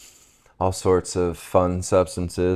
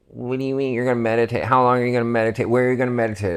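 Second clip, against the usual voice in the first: higher and fast, firing questions at a friend; rapid incredulous questions; 6 semitones higher, much faster than usual. Retold or imitated. Questioning friend who wants to meditate, fast and high. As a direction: pepper them with questions quickly.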